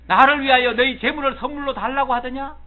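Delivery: loud, high-pitched indignant question; stern Job. Acted. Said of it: "정색을 얘기하는 거예요".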